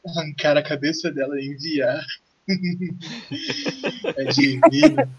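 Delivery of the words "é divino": villainous laugh. Acted. Pirate relishes beheading plan.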